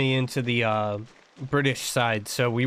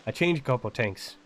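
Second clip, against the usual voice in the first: Irish-like accent; 3 dB quieter than usual. Shown as a demonstration. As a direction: say it Irish, with a T in "things". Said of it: "very similar accent to Irish".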